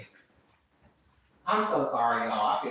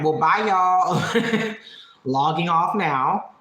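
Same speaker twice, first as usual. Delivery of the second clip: mock breezy farewell; 3 semitones higher, 4 dB louder, much slower than usual. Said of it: "I'd have been like".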